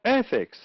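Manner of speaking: Ethics with the first syllable high, then falling; stress on first syllable. Shown as a demonstration. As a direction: punch the start of Ethics. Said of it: "it's the first syllable".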